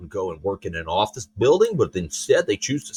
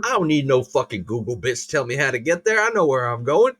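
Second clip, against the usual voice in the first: mock Southern accent; 2 semitones higher than usual. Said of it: "always have a Southern accent for you".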